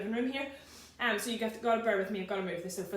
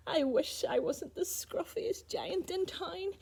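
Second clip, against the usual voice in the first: a touch of gloomy longing, a little higher and slow; sadly; 6 semitones higher, slower than usual. Acted. George wishing he weren't scruffy, mildly sad. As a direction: sigh it out like a glum giant. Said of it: "he said sadly".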